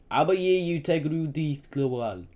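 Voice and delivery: high, loud eager outburst; bubbling over with a child's excitement; boy tugging his father's hand, excited; brimming with excitement. A narrator's reading. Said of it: "brimming with excitement".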